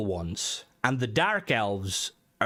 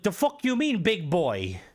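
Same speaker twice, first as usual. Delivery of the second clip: mock outrage, higher pitched; indignant retort; 6 semitones higher than usual. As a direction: fire it back, offended and incredulous. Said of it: "I wanna be like".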